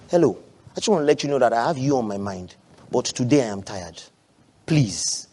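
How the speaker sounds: soft, low, acted request; gentle tired plea. Tired spouse asking partner for understanding, gentle plea. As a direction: plead quietly, lowering pitch and volume.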